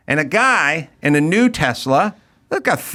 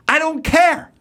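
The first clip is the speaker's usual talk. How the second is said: angry driver, much higher; mock angry driver; 12 semitones higher, slower than usual. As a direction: spit it out dismissively. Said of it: "he goes".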